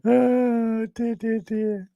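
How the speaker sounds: high, breathless laughing through the words; laughing so hard the tears come; laughing till crying. Real, not acted. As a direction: giggle helplessly as you say it. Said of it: "I'm gonna start crying in a minute".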